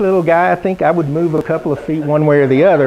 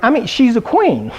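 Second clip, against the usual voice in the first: proud dad; 7 semitones higher than usual. Retold or imitated. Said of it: "he's like".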